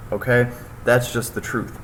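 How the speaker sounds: hiccuping mid-sentence; talking through hiccups. Real, not acted. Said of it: "Sorry, hiccup".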